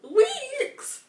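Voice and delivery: high, loud cry of disbelief; incredulous shout. Real, not acted. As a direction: yelp the word in shock. Disbelief at the neighbor's message.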